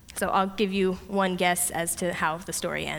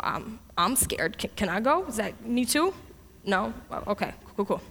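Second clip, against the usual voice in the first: timid Gideon; 3 dB quieter than usual. Acted. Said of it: "I imagine Gideon's looking at God like".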